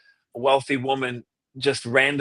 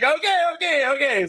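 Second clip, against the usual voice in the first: sheepish okay; 13 semitones higher than usual. Retold or imitated. Giving in quickly.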